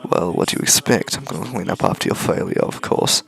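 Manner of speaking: hushed villain. Acted. Villain taunts with hushed menace.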